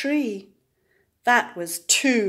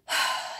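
sigh; 3 dB quieter than usual. Acted. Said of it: "he said and sighed".

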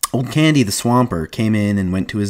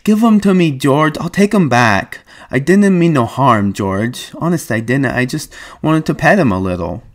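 put-on high childlike pleading; Lenny pleading; 6 semitones higher than usual. A narrator's reading. Lenny pleading with George to keep the pup, high. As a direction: beg and promise, like a scolded kid. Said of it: "held out his hands pleadingly".

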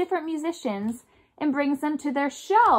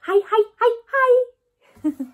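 cheery hi; 8 semitones higher, 4 dB louder, slower than usual. Pretend. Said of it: "saying hi to your best friend".

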